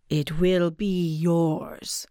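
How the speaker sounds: very slow, otherworldly guardian; eerie spirit voice. A narrator's reading. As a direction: speak like an ancient spirit. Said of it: "says the guardian".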